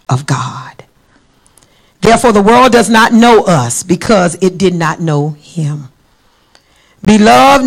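measured, mostly low-pitched Bible reading; scripture reading. Real, not acted. Preacher closes by reading First John to the church, solemn scripture reading. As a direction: read the verse out deliberately, weighting key words. Reads scripture aloud to congregation.

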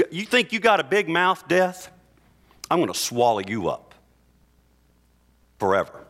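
a hint of a taunting God, rising high; voicing God. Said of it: "and God says".

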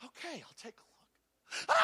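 slow, lightly voiced grandma agreeing; a mother taking up the challenge; slow, resolved mother. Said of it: "she goes".

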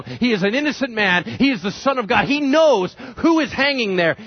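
high, forceful acted scolding; indignant rebuke. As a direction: tell him off, driving each statement home. Acted rebuke of the mocking criminal.

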